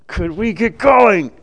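slow, pleading nudge to hurry along; a lightly voiced anxious father wanting to move on; impatient Jairus. Jairus urging Jesus to hurry, mildly impatient.

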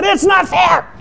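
high mock whine over the nose; jealous whine. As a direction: pout it out like an envious lady. Voicing a jealous lady's complaint.

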